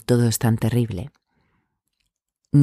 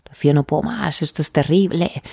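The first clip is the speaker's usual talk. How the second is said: lightly voiced desperate client, a touch higher; 5 semitones higher than usual. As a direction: imitate a client at the end of her rope, mildly. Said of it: "con ese tono". (imitando con suavidad a una clienta desesperada)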